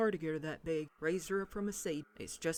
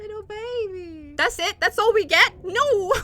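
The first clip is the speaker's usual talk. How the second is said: tearful; 12 semitones higher, 12 dB louder than usual. Real, not acted. Moved by a game letter.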